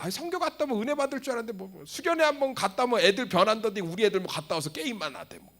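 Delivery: high, fast, put-on grumbling voice; whiny complaining churchgoer. Preacher mimics a griping parent, high and fast.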